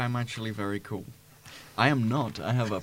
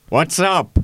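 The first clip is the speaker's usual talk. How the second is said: loud, raised-pitch call; shout; 5 semitones higher, 9 dB louder than usual. Acted. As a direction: shout it down the corridor. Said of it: "I'm gonna shout".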